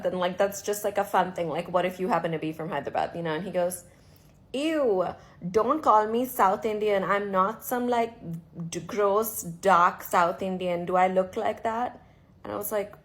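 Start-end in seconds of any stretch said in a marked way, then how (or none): 4.5-12.0 louder, scornful retelling of the man's "Ew"; disgusted quote. Retold or imitated. Retelling the man at the bar, disgusted and louder. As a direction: sneer it like the snobbish stranger.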